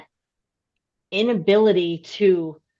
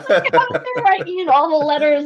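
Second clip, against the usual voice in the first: real high-pitched, loud laughter through the words; helpless giggling as you explain; laughing while talking; 13 semitones higher, 5 dB louder than usual. Real, not acted. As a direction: crack up mid-sentence, voice shooting up. Cracking up over the typewriter.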